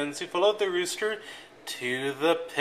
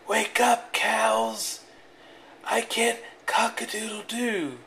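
rooster voice; 6 semitones higher than usual. A narrator's reading.

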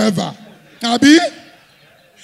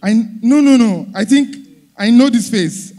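excited recognition; 2 semitones higher, 5 dB louder than usual. Retold or imitated. Woman recognising him excitedly.

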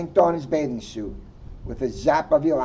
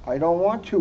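whined; faster than usual. Acted. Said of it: "whined Froggy".

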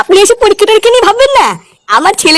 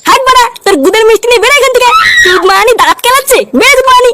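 angry yelling; 2 semitones higher than usual. Acted. Angrily throwing someone out.

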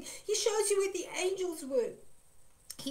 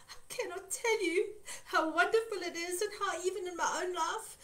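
tearful; 2 semitones higher than usual. Real, not acted. Preacher moved to tears.

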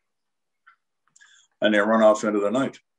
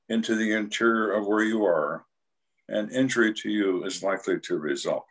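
police announcement. Retold or imitated. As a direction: recite a formal police warning. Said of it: "make the dog announcement".

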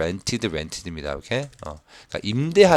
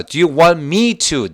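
very slow, louder reading as the man; the man's line; 7 semitones higher, 7 dB louder, much slower than usual. Shown as a demonstration. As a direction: voice the man offering to cook. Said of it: "남자가 얘기합니다". (남자 역할로 천천히 읽기)

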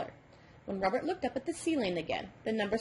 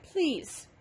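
higher, pleading protest; crying out in protest; 6 semitones higher than usual. A narrator's reading. Robert begging the number devil to stop, pleading higher. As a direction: beg him to stop, voice up high. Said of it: "Robert cried".

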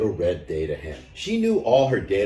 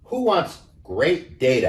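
hen asking; 7 semitones higher, 4 dB louder than usual. A narrator's reading. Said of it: "asked the little red data hen".

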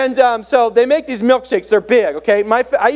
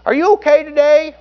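Dan Parchman; 6 semitones higher than usual. Retold or imitated. Teen checking on a waitress, high imitated voice. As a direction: imitate a concerned Southern teen, pitched high. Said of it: "He's just talking like this".

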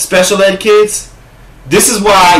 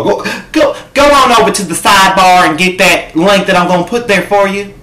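Miss T P impression; 3 semitones higher than usual. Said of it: "that was my Miss T P impersonation".

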